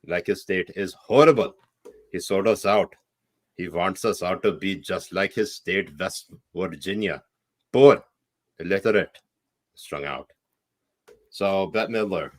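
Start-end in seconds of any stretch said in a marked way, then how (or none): 0.0-10.3 put-on Pakistani accent. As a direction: read the tweet aloud in a Pakistani accent. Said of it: "read it in my Pakistani accent".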